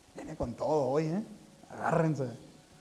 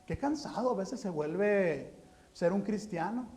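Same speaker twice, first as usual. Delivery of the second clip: mock weary complaint; 6 dB quieter than usual. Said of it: "La semana pasada decía".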